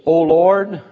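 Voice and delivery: crying out. Retold or imitated. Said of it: "David says".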